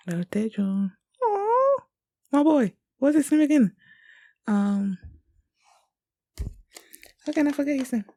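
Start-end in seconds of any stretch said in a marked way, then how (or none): 1.2-8.1 high, loud doting coo; gushing aww. Real, not acted. Fan doting on a cute boy character, loud high coo. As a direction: coo over him like a pet.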